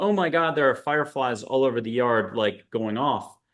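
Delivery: ordinary talk, nothing marked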